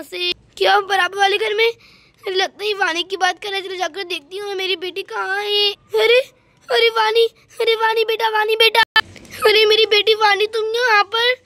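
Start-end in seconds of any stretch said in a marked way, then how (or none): 5.7-11.3 loud, relieved calls; calling out. Acted. A mother finds her daughter and calls out loudly to her. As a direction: shout her name across the way, relieved.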